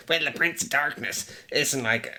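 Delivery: smug know-it-all voice; lightly mocking a pretentious critic; inner asshole voice. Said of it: "What's with the voice?".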